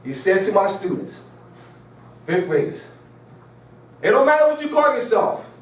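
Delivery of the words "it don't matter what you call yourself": mocking the professor. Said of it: "talking like this?".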